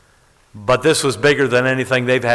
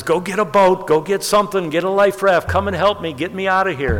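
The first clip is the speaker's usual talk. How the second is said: mock yelling; 6 semitones higher than usual. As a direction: call for help in an imitated yell. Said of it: "Lee starts yelling at him".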